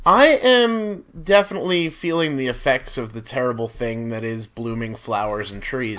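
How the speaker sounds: stuffy allergy nose; sniffly voice. Real, not acted. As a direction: speak with a sniffly blocked nose. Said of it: "this is an allergy sniffly".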